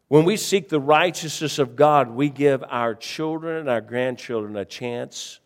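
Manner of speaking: loud, high preaching. Acted. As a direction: proclaim it with force. Preacher raises voice.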